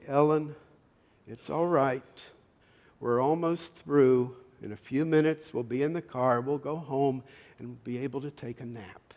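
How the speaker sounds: mildly acted calm, reassuring and unhurried; calm mother. Mother to fussing Ellen at the checkout, calm and reassuring. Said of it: "very calmly standing there".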